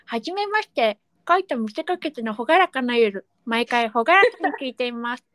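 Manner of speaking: lightly voiced toothless letter writer; a hint of a gap-toothed speaker; toothless reader. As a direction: read it as if a few teeth are missing. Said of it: "歯がないイメージで読んでみました".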